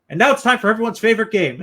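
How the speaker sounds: big, bright announcer voice with a high, loud build; game show host. Pretend. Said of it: "I sound like a game show host now".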